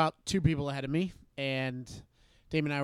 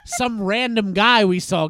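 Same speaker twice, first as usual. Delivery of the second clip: higher, louder exasperated scolding; annoyed at friend; 7 semitones higher, 7 dB louder than usual. Retold or imitated. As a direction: tell off a friend who's ruining your story. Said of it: "I was getting so mad at him".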